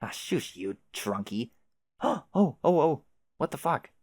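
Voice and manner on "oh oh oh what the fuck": high, excited startled cry; excited yelp. Real, not acted. Seeing the mailbox flag pop up, high excited yelp. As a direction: freak out at the flag going up.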